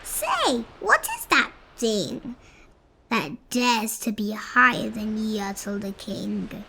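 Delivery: lightly voiced offended ruler; indignant king. Yertle offended that the moon rises above him.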